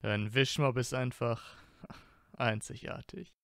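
giggling through the teasing line; teasing boyfriend, breaking into a laugh; laughing tease. Acted. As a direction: laugh it out mid-sentence, amused. Draco teases, laughing mid-line.

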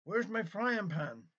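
a lightly voiced squawking parrot; mild parrot scream. A narrator's reading. Parrot calling out in the kitchen, mildly screamed. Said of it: "screamed the parrot".

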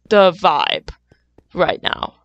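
breathy slow whisper. Real, not acted. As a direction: whisper it slowly. Whispered aside.

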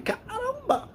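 a sudden high cry of shock; shocked gasp. Retold or imitated. Telling friends how shocked she was at the man's age, a high shocked cry.

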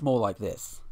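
put-on Aussie accent; lightly hammed Australian accent. Shown as a demonstration. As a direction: demonstrate a broad-vowelled Australian accent. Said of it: "you got the Aussie who sounds".

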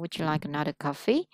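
coffee lifted up at the end; rising question tune. Shown as a demonstration. Teacher demonstrating a yes-no question, rising tune. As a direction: let the pitch climb on "coffee?" for a yes-no question. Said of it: "nên sẽ là lên giọng cuối câu".

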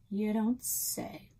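slow skeptical drawl. Acted. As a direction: say it doubtfully, drawn out.

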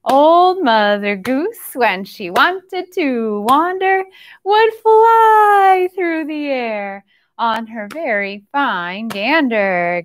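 slow sing-song rhyme for little ones; nursery rhyme recital. Acted. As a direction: lilt it slowly like story time. Same rhyme repeated.

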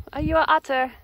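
high, loud teasing coo; pet talk. Real, not acted. Owner cooing at her cat rolling like an otter, high pet talk.

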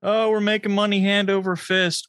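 usual speaking voice

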